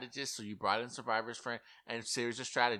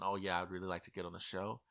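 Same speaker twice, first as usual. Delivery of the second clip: mellow audition voice; 6 semitones lower, 9 dB quieter, faster than usual. Retold or imitated. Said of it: "If Red is talking like this in his audition".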